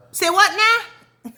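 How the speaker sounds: high, slow, drawn-out "say what now"; stunned and incredulous, stretching every word; shocked disbelief. Real, not acted. Shocked reaction to his excuse.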